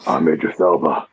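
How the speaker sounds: lightly voiced Idris Elba, London accent; a relaxed London accent. London accent, doing Idris Elba for friends. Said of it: "I can do an Idris Elba one".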